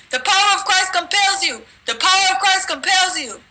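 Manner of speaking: high, ringing command to cast out a demon; exorcist command. Retold or imitated. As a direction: order the devil out. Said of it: "that's what I was saying".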